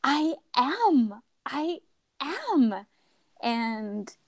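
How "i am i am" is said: high wailed "oh", then halting admission; retold sobbing, pitched up; imitated bawling. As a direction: act out a tearful breakdown. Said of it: "just started bawling".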